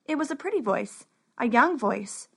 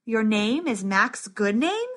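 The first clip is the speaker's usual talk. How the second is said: disbelieving; slower than usual. Acted. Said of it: "asked the scribe with disbelief".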